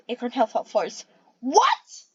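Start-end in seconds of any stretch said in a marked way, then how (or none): 1.4-2.0 high, loud shocked cry; screamed what. A narrator's reading. Cat screams hearing about the killing. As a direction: scream the word in horror. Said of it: "she screamed".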